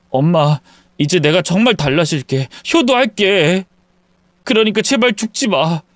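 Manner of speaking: tearful promise rising into begging; frightened son begging; fearful plea. Acted. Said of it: "아들이 느끼는 공포심".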